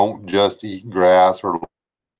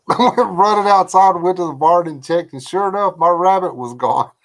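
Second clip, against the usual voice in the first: laughing; 9 semitones higher than usual. Real, not acted. Retelling shocking childhood memory.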